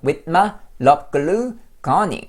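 slow with my love glue gunning; careful slow model; slow demo. Shown as a demonstration. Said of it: "이렇게".

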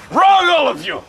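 put-on high, loud pirate-accent rebuke; ridiculous pirate accent. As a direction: overrule the crew in a hammy pirate accent. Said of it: "with that ridiculous accent".

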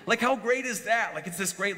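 laughing, high and bright with delight; amused. Real, not acted. Preacher to congregation, amused laughing. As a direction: laugh at how silly it is. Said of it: "it's just hilarious".

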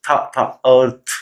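slow drill of the "th" sound, then the full word "अर्थ"; th sound demo. Shown as a demonstration. Teacher breaking "earth" into its th sound for learners, slowly. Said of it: "था sound".

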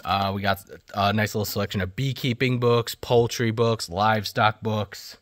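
puffing between book names after the stairs; out of breath. Real, not acted. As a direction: talk while catching your breath. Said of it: "I'm out of breath".

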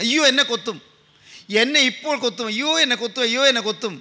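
mildly acted panicky child, quick cries; imitated child's wail. Younger brother afraid he will be stung next, mock wailing. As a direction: lightly imitate a scared child crying out. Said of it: "കുട്ടി ഇങ്ങനെ ഉച്ചത്തിൽ കരയുകയാണ്".

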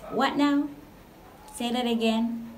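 high, incredulous what now; mock disbelief. To viewers, feigning shock at the stereotype. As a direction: act stunned at the remark.

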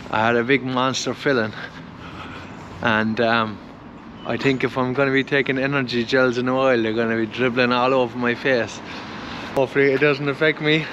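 talking with a numb jaw; numb from the dentist. Real, not acted. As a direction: mouth numb after a filling. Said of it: "my mouth is numb. I can barely talk".

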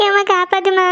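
acted, tearful plea to mother for help; frightened crying. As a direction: cry out for mum in fright. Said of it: "எதுக்கு அழுதுட்டு இருக்கீங்க".

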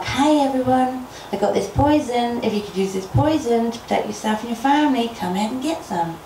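high call out to everyone. Acted. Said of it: "she calls out as it's getting dark".

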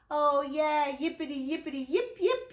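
high, loud puppy yips; happy yipping dog. Acted. Rescued puppy Zippity yips thanks to George, loud and high. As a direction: yip with joy like a small dog. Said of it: "Happy Zippity, telling George thank you".

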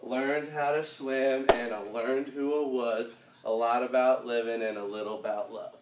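slowed, measured lyric delivery; slow lyric recital. Shown as a demonstration. Dance teacher marking song lyrics for the routine, slow recital. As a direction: speak the lyrics slowly in time to the dance.

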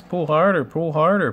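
high, loud chanting urging; puffing engine urging. A narrator's reading. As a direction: urge the one ahead to strain. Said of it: "puffed Thomas to Gordon".

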